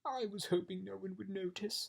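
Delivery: a touch of sad embarrassment. A narrator's reading. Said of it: "said the king sadly".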